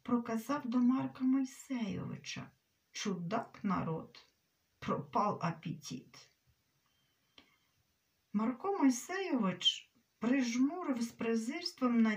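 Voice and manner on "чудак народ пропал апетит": low, sadly ironic remark; sad, caustic irony. A narrator's reading. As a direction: say it low, with rueful sarcasm. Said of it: "і сумно, з їдкою іронією проказав". (сумно, з їдкою іронією, низько)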